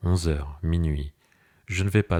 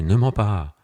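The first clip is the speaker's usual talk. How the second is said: a louder, higher retort; shouting back; 4 semitones higher, 4 dB louder, slower than usual. Acted. Husband shouts back at his wife, louder. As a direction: snap back loudly at her lie. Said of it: "Je crie".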